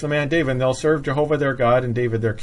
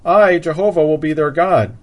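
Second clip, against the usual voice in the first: strong stress on "I", set apart before "Jehovah"; emphatic I; 3 semitones higher, 5 dB louder than usual. Shown as a demonstration. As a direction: proclaim "I, Jehovah" with force. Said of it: "that also is emphatic".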